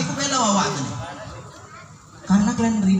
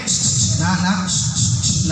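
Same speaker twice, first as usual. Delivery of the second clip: put-on hushing kids; 4 semitones lower, much slower than usual. Hushing noisy kids in mosque.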